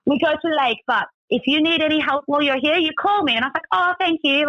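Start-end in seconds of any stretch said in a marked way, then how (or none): 0.1-3.3 higher-pitched mock driver offering help; imitated Russian driver. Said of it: "he's like". 3.7-4.5 high-pitched, polite mock thanks; retold polite thanks.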